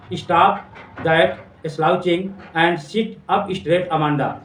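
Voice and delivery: very slow, each word drawn out; slow recital. Shown as a demonstration. Teacher reading mother's scolding line, very slow. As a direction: read the line slowly, word by word. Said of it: "सिखा रही है".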